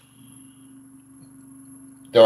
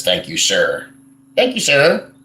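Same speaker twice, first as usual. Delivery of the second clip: imitating Filipino staff; slower than usual. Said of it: "Everybody here says".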